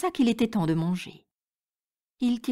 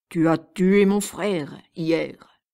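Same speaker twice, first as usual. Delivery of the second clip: slow, louder, enraged giant voice; raging giant; 2 semitones lower, 5 dB louder, much slower than usual. Acted. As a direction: spit it out in monstrous fury. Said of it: "dit le monstre avec rage".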